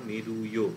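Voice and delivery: "মেরুয়" said with only a small "য়" glide; short ya glide. Shown as a demonstration. Teacher repeating the correct pronunciation for students: "মেরুয়". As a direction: end "মেরুয়" with a quick, tiny "ইয়" sound. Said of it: "খুব ছোট্ট করে একটা ইয়ের মতন উচ্চারণ".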